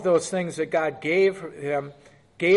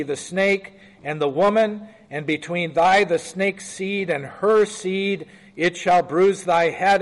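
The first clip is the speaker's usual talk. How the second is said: measured, slightly raised Bible-reading voice; scripture reading; 3 dB louder than usual. Acted. Preacher reading Genesis aloud to the class, lightly raised. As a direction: read the verse out to the group, a touch louder.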